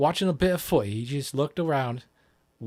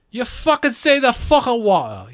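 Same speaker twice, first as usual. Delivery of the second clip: excited rant; 8 semitones higher, 7 dB louder than usual. Real, not acted. Excited rant about the accent.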